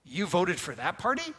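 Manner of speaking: petty tree. Pretend. Preacher imagines a tree refusing shade, mock indignant. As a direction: play a huffy tree snubbing someone. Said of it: "tree looking down going".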